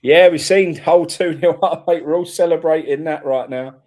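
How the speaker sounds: loud, laughing cheer at the lead; buzzing over a two-nil lead; goal celebration. Real, not acted. Celebrating a goal live on stream.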